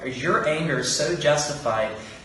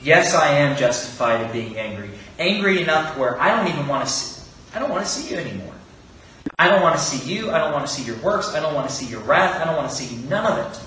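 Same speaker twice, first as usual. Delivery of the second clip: a hammed-up Jonah snapping back at God; angry outburst. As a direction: voice Jonah's resentful burst, pushing faster toward the end. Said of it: "burst forth in angry".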